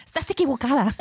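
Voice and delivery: high-pitched laughing Spanish correction; mock scolding. Abuelita tells her granddaughter she is wrong, mock scolding. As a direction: imitate abuelita's reproach, voice way up.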